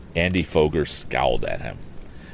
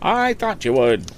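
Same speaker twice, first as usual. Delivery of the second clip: high, brisk auctioneer selling a boat; auctioneer's pitch; 13 semitones higher, slower than usual. Acted. Auctioneer coaxing bids from the lakeside crowd, lively and high.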